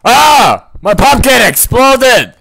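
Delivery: high shocked cry at the explosion; sudden loud high startled outburst; startled yelp. Real, not acted. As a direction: yelp in real alarm. Pumpkin explodes in game.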